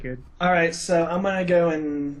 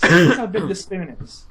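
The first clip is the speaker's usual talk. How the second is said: repeated louder, insisting; louder insistent; 5 dB louder than usual. Real, not acted. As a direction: push it louder the second time.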